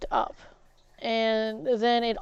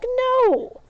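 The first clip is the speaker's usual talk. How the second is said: much higher, loud flat no; retold yell; 13 semitones higher, 5 dB louder than usual. Refusing Joe's demand over the blender, loud yell. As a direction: shout it down, refusing outright.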